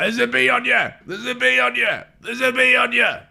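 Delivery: high-pitched squeal, repeated; squeaky war cry. Acted. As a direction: shriek it again and again while charging. War cry while fighting.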